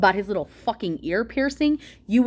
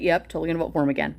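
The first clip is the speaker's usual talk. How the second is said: fast, lower, careless mock voter; mock supporter; 5 semitones lower, much faster than usual. Vlogger imitating an oblivious Trump voter, fast and low. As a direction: toss it off like a clueless fan. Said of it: "be like".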